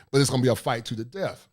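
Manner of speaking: ordinary talk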